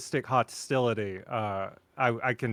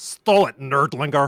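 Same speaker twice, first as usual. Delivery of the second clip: bad put-on cartoon character voice; 2 semitones higher, 8 dB louder than usual. Taunting another player after taking a kill: poor Strong Bad impression. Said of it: "your poor strong bad impression".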